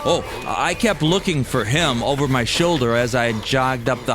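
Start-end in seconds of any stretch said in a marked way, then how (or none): none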